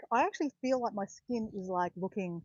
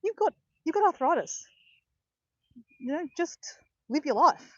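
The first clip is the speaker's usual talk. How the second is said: retold physio verdict; 7 semitones higher, 4 dB louder than usual. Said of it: "He goes".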